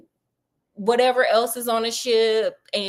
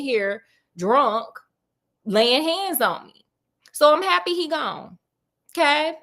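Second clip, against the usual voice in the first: lightly acted defiant attitude; fed-up daughter; 3 semitones higher than usual. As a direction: play a daughter who is done with it all. Acted fed-up daughter giving statement.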